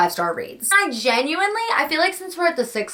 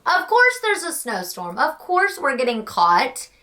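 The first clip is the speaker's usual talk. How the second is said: mock freaking out; 3 semitones higher than usual. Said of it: "He's, like, freaking out".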